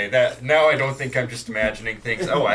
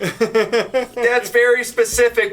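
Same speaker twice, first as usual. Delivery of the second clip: surprised; 10 semitones higher, 4 dB louder, slower than usual. Acted. Surprised greeting at tiny Bagby.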